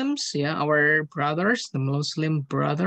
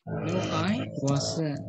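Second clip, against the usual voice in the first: slow model answer; much slower than usual. Shown as a demonstration. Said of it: "Yeah, correct".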